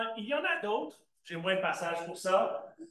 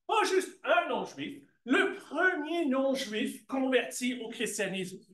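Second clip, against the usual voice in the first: PAS juste stressed, slower and higher; 4 semitones higher than usual. Real, not acted. Teacher correcting a student's answer, emphatic and slow. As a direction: lean on the correction, slowly. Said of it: "teacher stressing correction".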